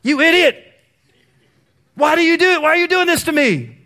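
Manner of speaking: hammed-up frantic parent screaming; exaggerated out-of-control dad yelling at son; mock furious yell. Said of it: "do you think I looked at him and go".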